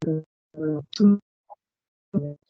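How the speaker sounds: choppy cutting-out microphone; mic cutting out. Real, not acted. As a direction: speak through a failing mic with dropouts. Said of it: "ton micro coupe, euh, on entend très mal".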